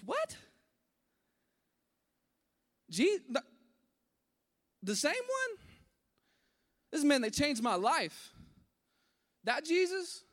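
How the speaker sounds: high, loud, stunned cries of disbelief; shocked disbelief. Retold or imitated. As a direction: gasp out the shock as if you can't believe it. Hearing shocking news about Jesus.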